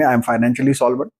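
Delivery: very slow, measured affirmations, each phrase weighed; unhurried affirmation repeated with conviction. Shown as a demonstration. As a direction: drag out every word like a calm vow. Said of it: "तो आप बोलेंगे".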